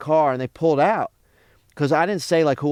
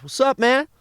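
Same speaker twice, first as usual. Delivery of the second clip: robber's greeting; 10 semitones higher than usual. Retold or imitated.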